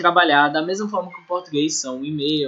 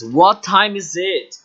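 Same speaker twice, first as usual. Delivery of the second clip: slow model question; slower than usual. Shown as a demonstration. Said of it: "a frase que deve ser usada".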